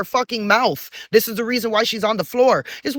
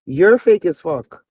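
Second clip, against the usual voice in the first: slow accusation; 2 semitones lower, 4 dB louder, slower than usual. Acted. Calling out ex-friend.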